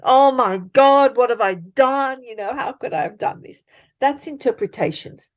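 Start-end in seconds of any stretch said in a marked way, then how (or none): 0.0-3.6 mock panic. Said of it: "you're already saying".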